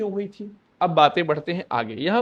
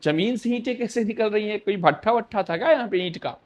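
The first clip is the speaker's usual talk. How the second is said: mock surprise; 3 semitones higher than usual. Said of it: "वो आश्चर्यचकित हो गए".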